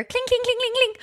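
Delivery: high, light clink clink sounds; imitated clinking. Mimicking the wands rattling in the back seat, high clinks. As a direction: mimic glass wands knocking together.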